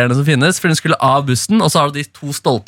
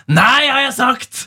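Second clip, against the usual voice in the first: much higher, slow angry bellow; mock roar; 10 semitones higher, much slower than usual. Imitating the old lady roaring at the girl on the bus. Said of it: "brøler hun bare".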